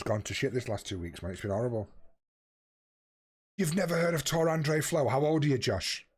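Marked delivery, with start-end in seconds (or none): 3.6-6.1 1 disbelief. Real, not acted. Teammate doesn't know old player.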